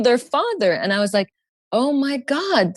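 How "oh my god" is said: retold panic. Her fear came true.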